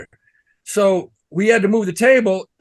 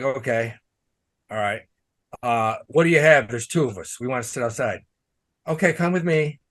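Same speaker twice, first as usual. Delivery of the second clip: a lightly voiced waiter, a bit lower and softer; a hint of the waiter's voice; imitating the waiter; 3 semitones lower, 4 dB quieter than usual. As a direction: mimic the snooty waiter, understated. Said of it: "I'm just talking the way he talked".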